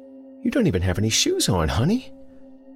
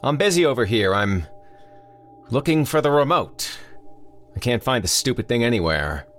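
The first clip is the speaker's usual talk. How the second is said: yelling back; 7 semitones higher than usual. Acted. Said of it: "he yelled back".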